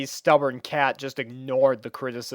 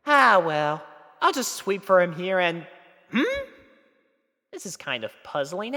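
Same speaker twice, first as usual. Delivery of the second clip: higher, thoughtful mare voice; puzzled mare; 8 semitones higher than usual. Acted. Twilight puzzling over Spike's forgetfulness, higher thoughtful voice.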